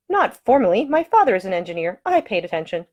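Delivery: modest but pleased heroine; young woman answering proudly; prim young lady. Acted. Ida replies to Masterton.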